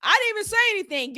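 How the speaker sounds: mock-innocent protest, rushed; mimicked denial. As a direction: mimic someone hurriedly denying it. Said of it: "I hate when people be like".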